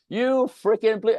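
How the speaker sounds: angry driver yelling in the car, high and loud. Retold or imitated. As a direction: explode at the traffic, then stop short. Cursing at other drivers.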